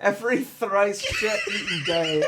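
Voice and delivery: mock commandment through laughter; laughing mock scripture. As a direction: proclaim it while cracking up.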